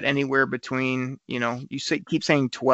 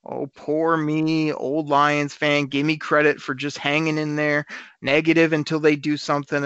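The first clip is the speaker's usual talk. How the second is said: mock whiny fan. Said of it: "you're the guy on this show".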